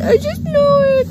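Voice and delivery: high, crying with laughter; laughing through mock panic. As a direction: squeal it out between laughs. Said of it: "I was like".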